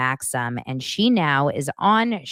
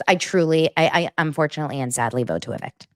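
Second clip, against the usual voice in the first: confessional voice. Pretend. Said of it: "sounded like I was in the confessional at Big Brother's".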